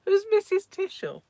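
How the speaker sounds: high, loud, laughing question; amused, squeaky-high disbelief; real laughter. Real, not acted. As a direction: ask it through giggles. Laughing at a viewer's comparison.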